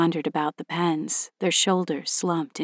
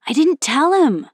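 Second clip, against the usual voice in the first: put-on high indignant young girl; pitched-up girl protest; 9 semitones higher, 8 dB louder than usual. Linda protesting.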